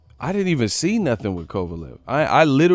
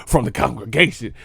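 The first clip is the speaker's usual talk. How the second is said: retold preacher call. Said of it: "He said".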